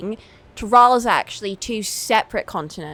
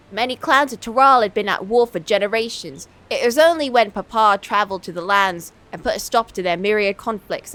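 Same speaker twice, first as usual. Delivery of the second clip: put-on Essex accent. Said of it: "an Essex accent".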